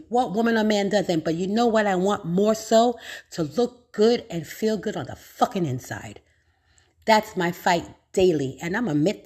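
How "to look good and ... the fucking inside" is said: hushed confiding whisper; whispered confession. Real, not acted. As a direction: lean in and whisper it like a secret. Confessional aside to viewers.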